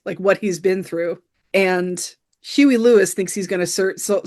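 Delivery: ordinary talk, nothing marked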